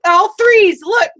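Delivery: high, loud gleeful insistence; a retold burst of glee, pitched high and loud; excited retelling. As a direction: shove the list at him, triumphant. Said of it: "I'm like".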